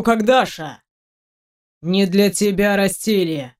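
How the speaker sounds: a hint of a haughty father; stern Caucasian traditionalist. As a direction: lecture the upstart, mostly unhurried. Proud Caucasian man lectures the suitor in story.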